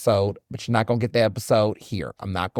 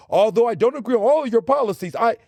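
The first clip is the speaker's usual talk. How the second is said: higher, prim and condescending; mock pretentious; 9 semitones higher, 3 dB louder than usual. Mocking how people greet an elected official, prim and condescending. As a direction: sneer it like a stuffy know-it-all. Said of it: "be like".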